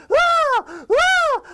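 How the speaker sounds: repeated piercing high screams; cartoon scream. SpongeBob will not stop screaming, cartoon scream. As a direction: keep screaming in hammed-up terror. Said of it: "His pupils are screaming".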